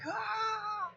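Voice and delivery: a yell squeezed into a hushed, high little cry; a tiny strangled shriek held back so nobody hears; whispered yell. Shown as a demonstration. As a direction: scream it but keep the volume down. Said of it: "you'll have to deal with the quiet whispering yells".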